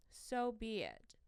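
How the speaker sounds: whispered acceptance. Real, not acted. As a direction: let it drop to a whisper. Resigned closing thought.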